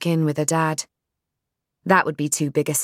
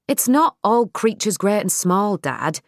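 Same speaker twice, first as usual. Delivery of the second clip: impatient; 5 semitones higher than usual. Acted. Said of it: "she said impatiently".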